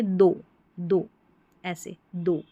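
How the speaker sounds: 'दो' with a long O; 'ओ' sound demo. Shown as a demonstration. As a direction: say दो slowly as a model, long O. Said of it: "इसको ओ पढ़ेंगे". ('दो' को लंबे ओ से)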